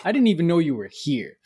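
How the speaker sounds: laughing while protesting innocence; laughing innocent protest. Real, not acted. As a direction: giggle through the words.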